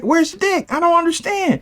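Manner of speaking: baffled squeak. Retold or imitated. Baffled by the remark.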